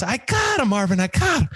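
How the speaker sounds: high-pitched winded imitation; acted excited puffing; out of breath. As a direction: call it out as if breathless from running. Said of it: "She's out of breath".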